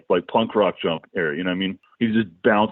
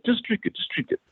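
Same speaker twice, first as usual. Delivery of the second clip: put-on high, softer thick-accented urging; Borat-like heavy accent; 5 dB quieter than usual. Bandmate urging friends to drink soup, in a heavy Borat-like accent. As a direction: mimic a Borat-style accent, pitched way up. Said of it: "he spoke, uh, basically like Borat".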